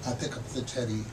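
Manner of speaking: measured, expressive poetry reading; poem reading. Acted. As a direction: read the poem like you're savouring each image. Poet reads the poem Adoption.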